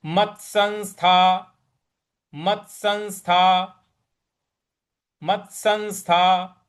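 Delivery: मत्संस्था with the half त pressed; careful teaching take of मत्संस्था; stress on half t. Shown as a demonstration. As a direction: hit the त in मत्संस्था. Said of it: "जो आधा त है उस पे थोड़ा सा बल लगाना है।".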